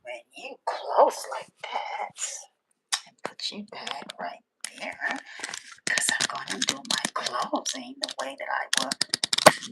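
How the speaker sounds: soft whispering; hushed aside while fiddling; whispered setup. Real, not acted. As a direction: keep it whispered.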